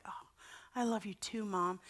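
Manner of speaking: put-on soft, sleepy-bedtime child's reply; sweet, retold. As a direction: imitate a small son answering mom softly. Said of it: "had this sweet little moment".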